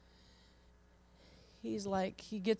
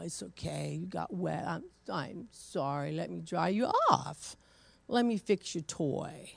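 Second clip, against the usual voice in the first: soothing grandma; 4 dB quieter than usual. Retold or imitated.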